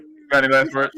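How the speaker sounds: loud mock threat, executioner style; mock menacing. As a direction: demand last words like a hammy villain.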